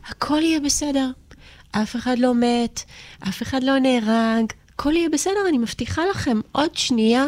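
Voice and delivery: put-on calm frightened children over the phone; reassuring the kids. Mother on the phone to her hidden kids, reassuring.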